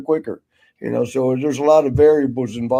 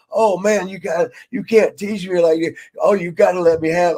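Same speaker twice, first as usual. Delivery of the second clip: higher-pitched mock begging; imitated pleading; 3 semitones higher than usual. Wrestler begs older man for his cigar, imitated pleading. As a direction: plead like a friend angling for a favor.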